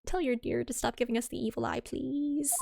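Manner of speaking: lightly done Scottish prison governor; a hint of a Scottish brogue, half-hearted; Scottish accent. Prison governor greeting the lawyers in a light Scottish accent. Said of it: "how to do this accent".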